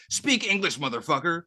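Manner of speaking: high, loud hammed-up redneck shout; a hammed-up yell at the cops; mock redneck yell. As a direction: bark it like a drunk redneck being arrested. Ronnie yells at cops.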